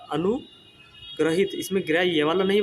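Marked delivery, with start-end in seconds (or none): 0.1-1.5 अनुग्रहित stretched out slowly, each syllable clear; slow spelled-out word. Shown as a demonstration. Teacher shows students how to write it, slow and deliberate. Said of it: "इस प्रकार से लिखा जाता है".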